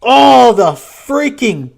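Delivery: furious outburst. Real, not acted. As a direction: explode at the lucky top deck. Opponent's top deck, cursing.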